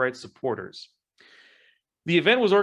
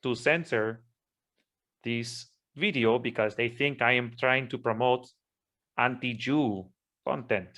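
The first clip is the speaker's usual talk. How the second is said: hammed-up Spanish accent. Speaking to YouTube in a lightly put-on Spanish accent. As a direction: play up a Spanish accent while clarifying, only lightly. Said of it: "I am going to use my Spanish accent".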